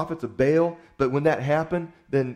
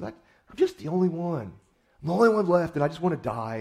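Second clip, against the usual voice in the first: mope it out, half-hearted; understated self-pitying moan; mild self-pity; 4 semitones higher than usual. Retold or imitated. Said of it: "feeling sorry for himself".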